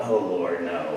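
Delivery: low, sinking aside; retold private dread, pitched low; dismayed. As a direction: groan inwardly at the task. Retold dread at being given drunk.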